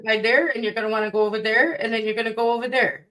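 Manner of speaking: put-on Chicago accent. Mock Chicago directions.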